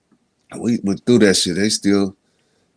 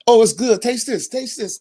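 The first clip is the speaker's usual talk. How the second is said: mock sweet woman voice; 9 semitones higher than usual. Mimicking a woman feeding him.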